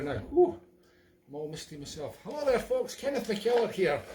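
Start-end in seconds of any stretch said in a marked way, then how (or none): 2.2-4.0 a singer. Acted. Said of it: "It's really Sandy Brechin".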